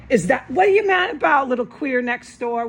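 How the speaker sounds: loud, sharp jeer at the neighbor; angry shout at the neighbor; angry taunt. Real, not acted. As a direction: call out at the man next door in anger. Yelling at neighbor in driveway.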